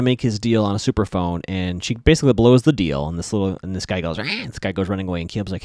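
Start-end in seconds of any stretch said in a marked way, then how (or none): 4.2-4.2 quick mock "rah" yell; imitated cry. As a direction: throw out a little imitation yell. Imitates fleeing man's cry.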